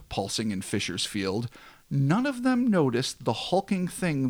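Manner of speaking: measured storyteller read, falling at sentence ends; dramatic story narration. A narrator's reading. Host tells of a hulking thing watching them, dramatic narration. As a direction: narrate an eerie tale with weight.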